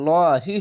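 "লহি" with a heavy, lengthened ল; thick L. Shown as a demonstration. Teacher explains to learners why L is heavy, thick and drawn. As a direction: make the ল full and long in "লহি". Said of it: "মোটা করা হবে".

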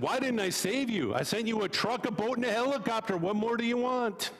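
God answering the rabbi's complaint; exasperated God. Acted. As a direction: list the rescues with a shrug in the voice.

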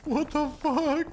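slow, high drawn-out what the fuck; drawn-out disbelief. Real, not acted. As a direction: stretch it out in disbelief.

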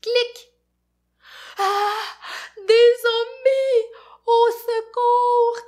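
high, loud panicked cry; terrified scream. Acted. Fafounet seeing zombies, screaming for help. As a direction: shriek for help in fright. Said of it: "Crie Fafounet".

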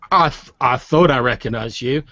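lightly voiced halting drunk; drunk man. Drunk man to the priest he recognizes, mildly drunken. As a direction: stumble into it, a little tipsy. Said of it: "a really sort of drunk man".

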